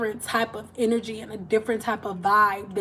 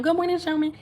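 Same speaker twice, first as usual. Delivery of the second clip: higher, bright sing-song good morning; cheery churchgoer greeting; 7 semitones higher, faster than usual. Retold or imitated. Churchgoers greeting her dad in a higher sing-song. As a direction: greet him sweetly after church service. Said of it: "That was my father's name".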